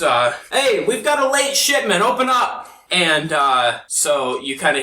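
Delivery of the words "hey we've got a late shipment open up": higher, called through a wall; gruff guard voice. Acted. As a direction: shout it through the door. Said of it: "knocks and goes".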